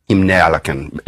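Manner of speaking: put-on reconstructed Old English accent with a Germanic lilt; half-invented Old English accent. Shown as a demonstration. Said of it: "I don't know what accent this is".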